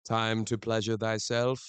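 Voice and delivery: slow mock Shakespearean voice; slow, grand Shakespearean delivery; mock olde english. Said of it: "in a Shakespearean voice".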